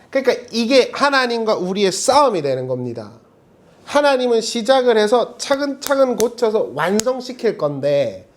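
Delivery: ordinary talk, nothing marked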